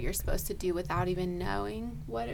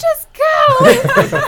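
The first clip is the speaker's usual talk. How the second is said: much higher, louder shout to go; urgent shout; 17 dB louder than usual. Retold or imitated. EMT yelling at the nurse to keep running, urgent shout. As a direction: wave her on, urgent.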